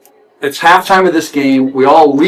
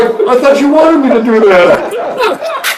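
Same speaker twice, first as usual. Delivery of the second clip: sheepish reply; 12 semitones higher, slower than usual. Retold or imitated. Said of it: "he had this look on his face like".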